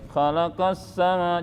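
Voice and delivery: "khalaqas sama" with the mouth too closed; wrong recitation. Shown as a demonstration. Teacher imitates a student's mistake, muffled closed mouth. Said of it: "Jangan begitu".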